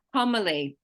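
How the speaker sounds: homily with HOM stressed; emphasize the opening syllable of homily; stress on first syllable. Shown as a demonstration. Teacher modelling the word for a learner, homily stressed on HOM. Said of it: "we're gonna emphasize that first syllable".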